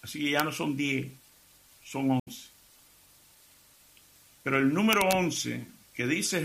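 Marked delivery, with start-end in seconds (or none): none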